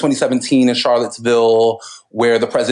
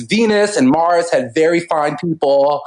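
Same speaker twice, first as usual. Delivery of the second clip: a hint of a snooty Valley Girl; uptalk, lightly mocking tourist; 4 semitones higher than usual. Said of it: "in one of these Valley Girl voices".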